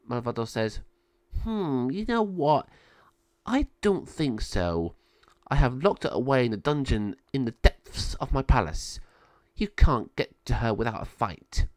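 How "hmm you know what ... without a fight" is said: taunting villain. Acted. Malvado refusing to release Mariana to Sabio, taunting.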